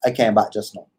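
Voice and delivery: easy Caribbean lilt; relaxed Caribbean accent. Shown as a demonstration.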